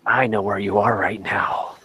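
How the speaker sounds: low, menacing phone voice; creepy caller. Shown as a demonstration. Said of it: "first thing I say anytime I call".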